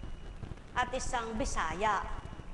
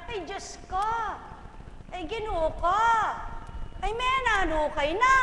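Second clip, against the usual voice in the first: startled cry to God, rising; exclaiming; 6 semitones higher than usual. Retold or imitated. Someone surprised, crying out to God in excitement. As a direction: gasp out to the Lord. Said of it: "nasasabi niya".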